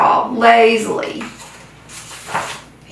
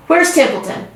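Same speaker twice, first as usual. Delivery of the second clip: demanding; 7 semitones higher than usual. A narrator's reading. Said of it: "he demanded".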